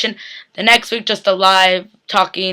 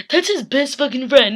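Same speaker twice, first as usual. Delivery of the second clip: laughing disbelief, swearing; amused and upset at once; laughing through it; 4 semitones higher than usual. Real, not acted. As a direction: laugh the words out, exasperated. Laughs while repeating.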